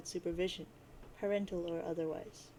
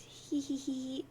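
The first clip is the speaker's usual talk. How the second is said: slow mock giggling "hee hee hee"; giggle; 4 semitones higher, much slower than usual. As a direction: play it like a sly little giggle. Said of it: "And she says".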